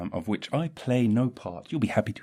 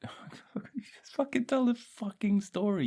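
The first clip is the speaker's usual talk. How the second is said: high whispered self-scold; whispered self-rebuke; 12 semitones higher than usual. Acted. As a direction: hiss it at yourself. Whispering at himself.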